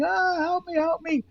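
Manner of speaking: imitating a frightened old man calling out; mock scream for help. Old man being grabbed, cries for help in mock fright. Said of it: "the old man starts screaming".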